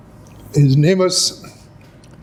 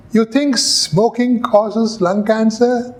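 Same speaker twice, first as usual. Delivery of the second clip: higher, slow, incredulous question; slow, raised voice mocking the claim; sceptical challenge; 5 semitones higher, slower than usual. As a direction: press the doubt like a cross-examiner. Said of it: "Fisher stood up".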